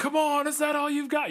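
mock shrill, very high-pitched yell. Retelling a character's big moment yelling at the gods: imitating yelling at the gods. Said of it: "yelling at the gods".

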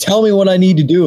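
angry, insistent voice. A player's character in a game calls up to the gods: angry tone. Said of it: "like in an angry tone".

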